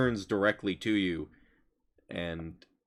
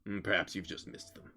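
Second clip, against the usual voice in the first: hulking stranger; 9 dB quieter than usual. Acted. Bolt speaking in the game.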